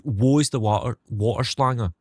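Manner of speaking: put-on same German line in a broad Scottish accent. Streamer tries his Scottish accent in German, Scottish accent. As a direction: roll it out Scottish, Wo is the water. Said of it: "a sentence I can say in Scottish".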